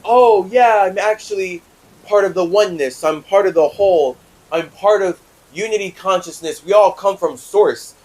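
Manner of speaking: high, loud, starry-eyed parody of a believer; mocking spiritual believer. Mocking the spiritual crowd who chant about oneness, in a high gushing voice. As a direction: ham up a dreamy convert gushing about oneness. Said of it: "it's easy to be like".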